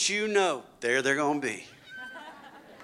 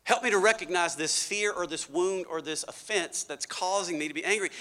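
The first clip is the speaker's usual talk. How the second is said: quiet prayer. Shown as a demonstration. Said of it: "we pray this prayer".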